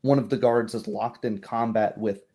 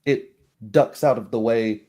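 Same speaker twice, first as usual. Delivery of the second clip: ordinary talk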